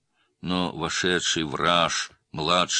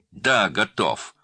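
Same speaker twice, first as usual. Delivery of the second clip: slow, higher, louder yell; shouting; 6 semitones higher, 8 dB louder, slower than usual. A narrator's reading. Adalyat shouting at the officer, losing all patience. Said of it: "закричал Адалят".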